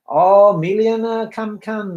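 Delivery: a high "oh", lightly playing the fawning host; flattering welcome. Monk welcoming a millionaire to the temple, mock flattery. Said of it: "kind of the praise".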